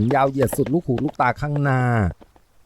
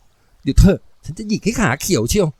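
slow, raised big-sister threat; higher, drawn-out cross warning; flustered angry scolding; 5 semitones higher, 4 dB louder, slower than usual. A narrator's reading. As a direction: fume at the boy through embarrassment. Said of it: "หล่อนก็ฟัดก็เฟียดออกมาได้แค่นั้น".

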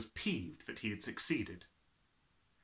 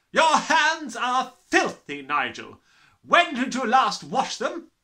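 slow bellowing; 12 semitones higher, 13 dB louder, slower than usual. Acted. Trunchbull scolding.

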